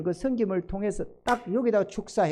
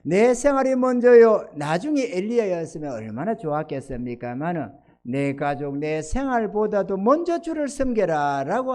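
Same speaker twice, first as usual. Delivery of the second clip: raised, swelling preacher's voice; preaching; 3 semitones higher, 7 dB louder than usual. Acted. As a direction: press the point home from the pulpit.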